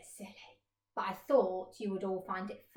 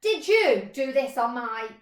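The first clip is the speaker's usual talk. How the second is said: louder question cut off; accusing question; 9 dB louder than usual. Acted. Mole about to accuse the flies, loud. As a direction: start to ask, then stop. Mole starts asking again.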